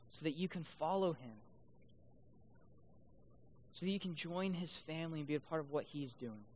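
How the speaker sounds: soft, with long reflective pauses; hushed, searching appeal to the congregation; gentle preaching appeal. Real, not acted. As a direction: let each question settle quietly. Soft closing appeal to listeners.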